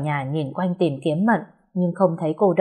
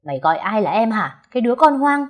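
higher, louder jab on the slur; furious insult; 5 semitones higher, 3 dB louder than usual. Acted. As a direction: point and snarl. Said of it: "Bình tức tối".

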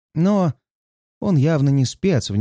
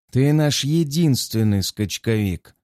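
slow, cutting captain's reply; curt retort; slower than usual. Acted. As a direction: cut him off flatly. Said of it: "отрезает капитан". (отрезая сухо)

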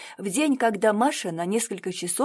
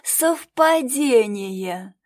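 "Совпадение" dragged out very slowly, loud and high; sarcastic, rolling-eyes drawl of "Совпадение"; theatrical mockery; 4 semitones higher, 6 dB louder, much slower than usual. A narrator's reading. Marya mocks Katya's coincidence, theatrical drawl. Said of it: "театрально закатив глаза".

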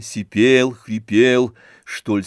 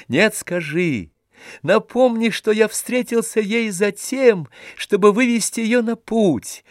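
much higher, eager and rising; joyful insistence; 10 semitones higher than usual. A narrator's reading. Oblomov urging Stolz to tell Olga, high and rapturous. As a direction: pour out the blessing in rapture.

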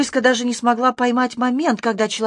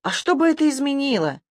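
croaking rat voice; 6 semitones higher than usual. A narrator's reading. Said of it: "оброс гортанным саврянским карканьем".

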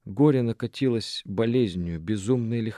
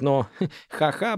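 нервный смешок; 5 semitones higher, slower than usual. Acted. Нервный смех Шаны.

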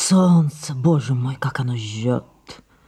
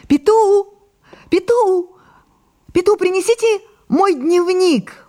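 loud high call across the terrace; 6 dB louder than usual. Acted. Sarah calls Petou to bring her diary, shouting. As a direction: shout for the servant at full voice.

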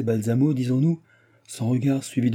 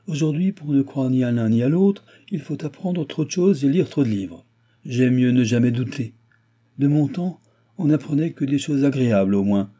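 higher, emphatic nostalgic complaint; grumbling old baron; 5 semitones higher, 4 dB louder than usual. Acted. Baron comparing today with his youth, exasperated. Baron scorns modern learning.

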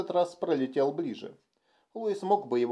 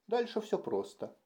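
brisk, animated, a bit higher; lively; 7 semitones higher, 6 dB quieter than usual. A narrator's reading. Puppeteer briskly outlines the plan to Louis, lively. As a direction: perk up, the plan is simple. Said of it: "оживлённо заговорил кукольник".

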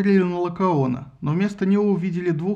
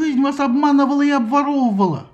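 much higher, louder wailing rant; screaming; 9 semitones higher, 5 dB louder than usual. A narrator's reading. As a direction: rouse the mob. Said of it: "завопил Синон". (истошный вопль)

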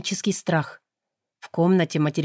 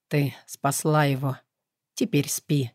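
lower, softer soothing command; enveloping voice; 4 semitones lower, 3 dB quieter than usual. Acted. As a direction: lull her to sleep. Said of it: "велел обволакивающий голос".

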